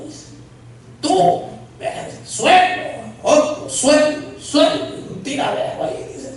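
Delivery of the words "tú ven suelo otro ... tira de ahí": high, laughing mock preacher calls; calling people down with a laugh; mock preacher commands. Retelling the preacher felling people, laughing.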